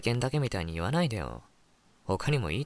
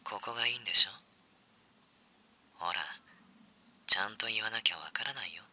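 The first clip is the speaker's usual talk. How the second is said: whispered seductive tease; played back from a phone; phone playback; 2 semitones lower, faster than usual. Shown as a demonstration. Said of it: "再生っと。".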